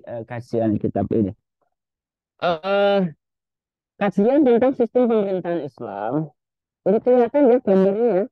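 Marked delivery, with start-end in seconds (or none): 2.4-8.2 glitchy robotic voice over a bad connection; choppy robotic video-call audio. Real, not acted. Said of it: "Suaranya kayak robot".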